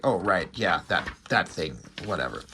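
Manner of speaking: low, quiet, dismissive mumble to oneself; offhand recognition. Retold or imitated. Reader imagines finally remembering the mystery character, offhand. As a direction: toss it off low, trailing away.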